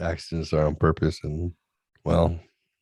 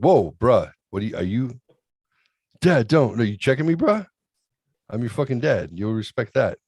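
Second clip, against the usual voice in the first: indignant dad; 5 semitones higher than usual. Retold or imitated. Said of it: "I'm like".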